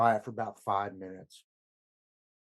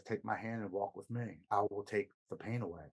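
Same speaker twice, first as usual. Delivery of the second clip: soft, coaxing voice of the addiction, softer; seductive inner voice; 6 dB quieter than usual. Retold or imitated. The disease of addiction coaxing him, soft and luring. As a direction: lure him gently toward the pain's end. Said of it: "I hear this voice that says".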